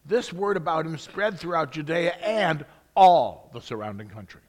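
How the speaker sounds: eager storytelling, every "and" leaned on; a hint of breathless wonder, stressing each "and"; breathless excited reading. Shown as a demonstration. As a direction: read it like an excited child telling news. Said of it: "And I'm gonna emphasize it that way".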